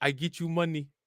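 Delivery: non-native broken English speech. Retelling a robbery story, imitating the foreign woman, foreign broken english. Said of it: "She foreign. She leaving words out and mispronouncing shit".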